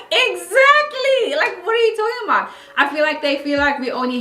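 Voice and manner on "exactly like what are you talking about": incredulous retort. Retold or imitated. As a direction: play the friend, baffled they'd doubt her. Friend mocks confused people.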